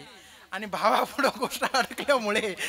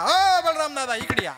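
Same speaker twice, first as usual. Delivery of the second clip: calling out; 4 semitones higher than usual. Retold or imitated. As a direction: shout for Balram's attention. Servant calls Balram across meeting.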